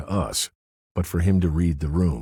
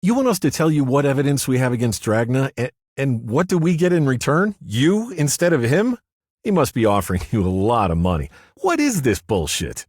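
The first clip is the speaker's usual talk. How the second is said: high, louder yapping little man; indignant deputy yipping in outrage, much higher; 10 semitones higher, 7 dB louder than usual. A narrator's reading. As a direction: yap it out like an indignant terrier. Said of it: "Willis yipped".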